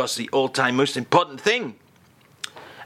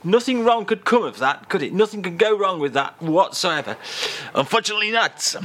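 French persona; 6 semitones higher than usual. Acted. Charles protesting innocence about ladies.

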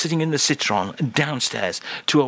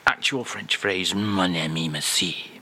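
put-on French accent; 3 semitones lower than usual. Host asks Charles, show-off French accent. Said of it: "give us today's top quality actual French phrase".

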